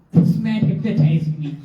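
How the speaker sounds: thought voiced through laughter; amused retold suspicion. Telling the audience a silly suspicion about the guru, laughing. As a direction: break into laughing as you voice it.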